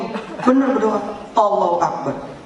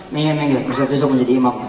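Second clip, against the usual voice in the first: voicing the king; 4 semitones lower, faster than usual. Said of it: "Raja bilang".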